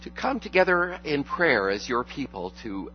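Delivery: calm, earnest pastoral prayer voice. Acted. Pastor leads congregation in prayer.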